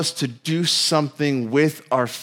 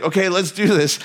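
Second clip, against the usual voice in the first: a touch brighter and bolder; gung-ho go-for-it; Peter pumped up; 3 semitones higher than usual. Retold or imitated. Peter psyching himself up, mild eager burst. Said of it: "crazy courage enough to".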